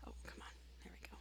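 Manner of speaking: breathy frustrated whisper to herself; muttered aside. Real, not acted.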